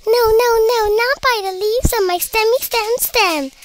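high, squeaky refusal; squeaking. A narrator's reading. First pea shooter refusing the imp, squeaking. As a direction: squeak it out, starting loud. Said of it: "squeaked the first little pea shooter".

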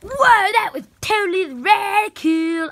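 high, loud amazed cheer; excited exclamation. Acted. Character amazed after the gunman's threat, high excited cheer.

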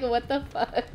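laughing. Retold or imitated. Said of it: "He was just like".

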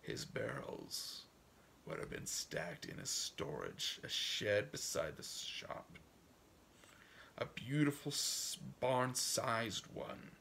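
put-on measured, folksy old farmer's monologue, softly wistful in places; story narration. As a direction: read it as a dreamer's unhurried storytelling. Reads old man's monologue.

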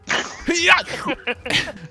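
high-pitched silly scream; drawn-out scream. Pretend. Gamer screaming along as the mission continues, silly scream. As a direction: scream for no real reason. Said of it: "Why are we screaming?".

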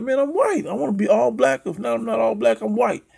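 hammed-up frustrated boy; imitating the boy. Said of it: "He's like".

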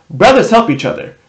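high and choked up, just sniffled; a tearful brother holding back tears; teary. Acted. Tyson sniffled, tearful goodbye.

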